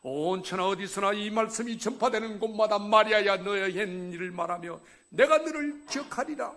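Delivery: booming, high proclamation of scripture; proclaimed verse. Acted. Preacher declaims God's promise to Mary, proclaimed loudly. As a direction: thunder the verse out to the congregation.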